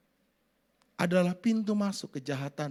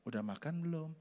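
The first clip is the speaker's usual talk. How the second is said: gentle tone; 4 dB quieter than usual. Shown as a demonstration. Preacher showing a gentle way to ask about dinner, soft. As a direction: ask it kindly and softly. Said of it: "Coba ngomong lembut".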